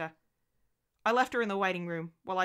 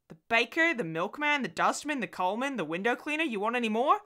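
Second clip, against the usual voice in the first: singsong list, pitched higher; exasperated listing; 5 semitones higher, 4 dB louder than usual. Acted. Husband answering his anxious wife, exasperated list. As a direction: reel off each name as if obvious.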